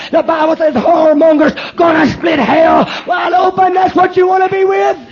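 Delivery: loud, hammering condemnation; fiery shouting preacher. Real, not acted. Preacher warning the congregation about adultery, shouting. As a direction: thunder it at the congregation.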